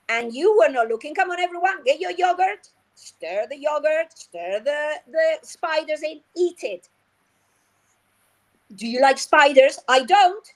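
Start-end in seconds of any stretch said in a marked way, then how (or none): 1.1-6.9 higher, animated call to the class; rally the class, higher; excited teacher. Shown as a demonstration. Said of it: "made-up story". 8.8-10.5 exaggerated disgust. Shown as a demonstration. Teacher acting disgust.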